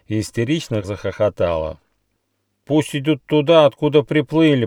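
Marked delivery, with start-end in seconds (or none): 2.6-4.7 raised, loud disgruntled platypus; cross animal's complaint; grumbling. A narrator's reading. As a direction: grumble angrily at the newcomers. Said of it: "проворчал утконос Сока".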